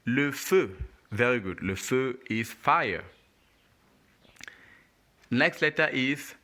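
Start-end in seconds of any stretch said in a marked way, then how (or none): 0.1-0.8 "le feu" as luh fuh, rounded vowel; "le feu" in careful French, lips rounded; French model pronunciation. Shown as a demonstration. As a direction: model "le feu" clearly for a learner.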